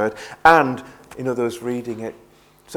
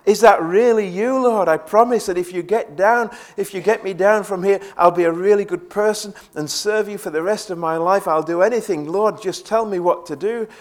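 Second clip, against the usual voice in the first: pleading man; 6 semitones higher than usual. Retold or imitated. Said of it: "the man cried out".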